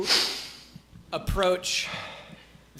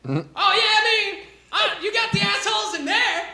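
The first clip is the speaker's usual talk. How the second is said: much higher, laid-back dude voice; Dale the peasant; 13 semitones higher, 4 dB louder than usual. Acted. Peasant Dale introduces himself, high and chill. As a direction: shrug it off easily.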